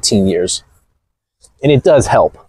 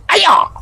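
mock effort yelp. Pretends to take big jump.

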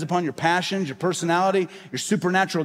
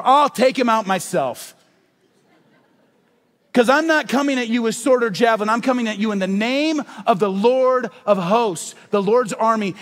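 David's defiant reply; 4 semitones higher, 4 dB louder than usual. Acted. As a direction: promise victory with steady fire. David answers Goliath boldly.

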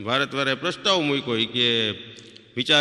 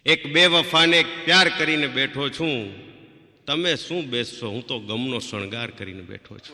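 sad shayari recital. Shown as a demonstration. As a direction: recite it like a sorrowful ghazal. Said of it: "એક આ દર્દભરી વાત લઉં". (ધીમે ધીમે દર્દભરી શાયરી)

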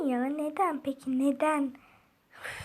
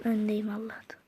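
whispered relief; 4 semitones lower, 5 dB quieter than usual. Real, not acted. Relieved aside while racing.

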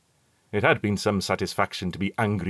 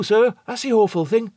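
much higher servant voice, hushed dread; eerie hint in a common voice; ominous steward; 14 semitones higher, 5 dB louder than usual. A narrator's reading. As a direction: warn the passenger of the awful thing. Steward hinting at horror.

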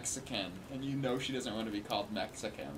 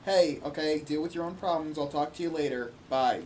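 polite brush-off; 3 semitones higher than usual. Retold or imitated. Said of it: "She's being very, very polite".

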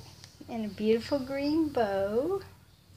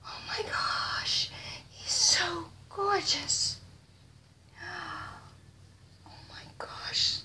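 slow, hushed, near-crying awe; tearful whisper; 6 semitones higher, 5 dB quieter, slower than usual. Real, not acted. Overwhelmed by the doll, whispering through tears. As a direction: whisper like you're about to cry.

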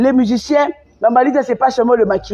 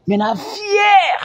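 crie lent, la voix qui se brise; cri ému; 7 semitones higher, much slower than usual. Real, not acted. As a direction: clame sa fierté en pleurant. Proclame sa fierté malgré la pauvreté. (fierté criée en pleurs, lente)

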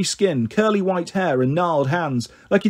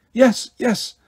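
chuckling; 6 semitones higher than usual. A narrator's reading. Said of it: "Sammy chuckled".

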